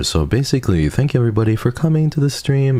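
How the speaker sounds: very high-pitched voice. Showing how her voice sounded when she debuted: imitating her higher debut voice. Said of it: "I was a little bit higher up here".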